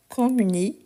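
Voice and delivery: "communiquiez" broken up, with the i before -ez clearly sounded. Shown as a demonstration. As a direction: say "communiquiez" in parts, ending on a distinct "ki-ez". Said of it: "on prononce bien le i".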